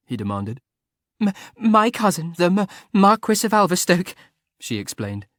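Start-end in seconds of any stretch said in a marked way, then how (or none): 1.2-4.2 high, stammered through laughter; giggling. A narrator's reading. Laughter breaking the words. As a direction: Frederica explaining to Arthur while laughing, stammering. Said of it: "A gurgle of laughter".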